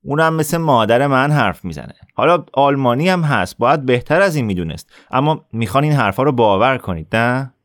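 put-on bully sneering at the boy's claim; sneering retort. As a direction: sneer it back at him. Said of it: "آصف پوزخند زد".

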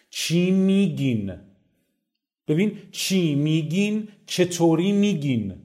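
ordinary talk, nothing marked

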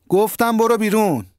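high, sharp shouted order; angry shout. A narrator's reading. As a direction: yell him out the door. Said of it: "علی آقا داد زد".

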